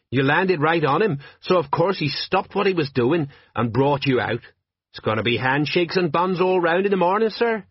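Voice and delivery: cheerful report to his commander; eager sergeant. Acted. Sergeant cheerfully briefs Vimes after the fire, eager voice.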